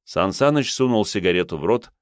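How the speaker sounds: usual speaking voice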